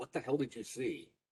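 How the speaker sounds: soft, hushed, secretive stage whisper. Voicing Froderick asking a player what they saw, half-whispering. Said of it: "He's like whispering to you".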